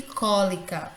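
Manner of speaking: cólica with CÓ stressed. Shown as a demonstration. Teacher giving examples to the class, cólica stressed on CÓ. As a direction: lean on the opening có of cólica. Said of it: "o có".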